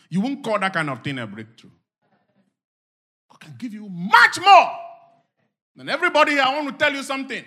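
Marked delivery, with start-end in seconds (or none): 3.3-7.4 high, loud exhortation rising to shouts; full-force preaching. Real, not acted. Preacher urging everybody to pray and talk faith, shouting. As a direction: fire off each command at the top of the voice.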